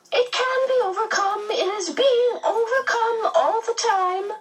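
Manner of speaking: high, laughing delight; happy, smiling. A narrator's reading. The medium reassures the children, laughing happily. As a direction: let the joy spill into laughter. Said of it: "smiling happily".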